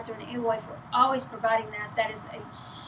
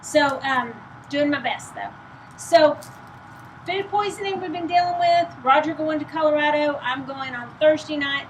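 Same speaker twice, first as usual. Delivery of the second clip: higher, louder projected voice; 4 semitones higher, 5 dB louder than usual. Real, not acted. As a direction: push the voice out to be heard. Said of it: "trying to speak very loudly".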